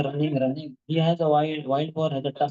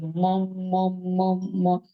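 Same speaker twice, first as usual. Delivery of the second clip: put-on baby babble; 5 semitones higher, much slower than usual. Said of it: "by mistake he said".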